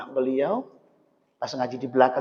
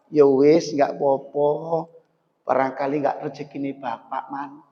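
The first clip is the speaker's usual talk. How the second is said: gentle forgiveness. Acted. Ice seller forgiving the stolen money to his son. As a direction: let it go kindly like a patient father.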